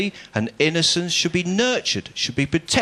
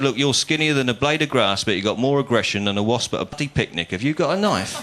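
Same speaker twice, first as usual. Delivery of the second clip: mock-hard London tough guy, understated; a hint of Michael Caine menace; Michael Caine impression; 4 semitones lower than usual. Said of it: "doing a Michael Caine impression".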